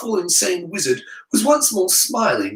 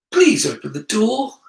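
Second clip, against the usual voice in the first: higher, mildly anxious plea; trembling voice; 6 semitones higher than usual. Acted. Harry trapped with the headmaster, pleading with a slight tremble. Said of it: "his voice trembling".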